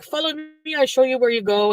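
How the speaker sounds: imitated French Canadian lady; French Canadian accent. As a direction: lightly put on French Canadian English. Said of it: "feel like it's an Italian accent".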